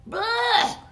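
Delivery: loud, high disgusted shriek; scream of disgust. A narrator's reading. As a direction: spit it out with a shriek. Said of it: "I screamed".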